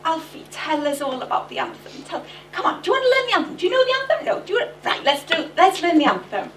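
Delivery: high, excited coaxing of a tutor; eager coaxing. Retold or imitated. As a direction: chivvy him on like an eager tutor. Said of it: "o'n i fel".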